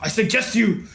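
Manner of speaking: lightly voiced official giving a briefing; formal report with a touch of gravity; grim baronet reporting. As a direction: deliver a grave status report, measured phrases. Baronet gives status report.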